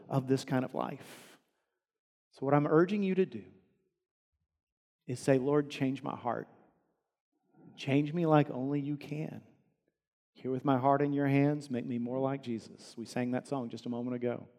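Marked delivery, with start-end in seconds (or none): 5.4-13.0 soft prayer. Shown as a demonstration. Preacher models a prayer.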